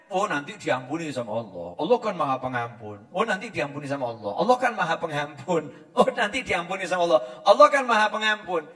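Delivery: low murmur building to full voice; mock self-reassurance, repeated and steadily rising; complacent daydreamer. Sinner daydreams of forgiveness, complacent and building.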